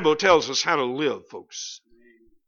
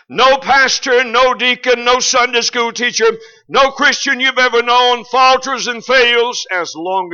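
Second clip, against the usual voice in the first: preaching emphasis; 6 semitones higher, 7 dB louder, slower than usual. Real, not acted. Preaching climax.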